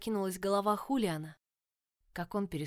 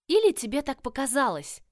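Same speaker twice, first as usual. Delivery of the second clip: louder, cutting her sister off; interrupting; 6 semitones higher, 8 dB louder than usual. A narrator's reading. Tella interrupts Scarlett's story of the killing, cutting in loudly. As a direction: cut in sharply. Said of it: "перебила Телла".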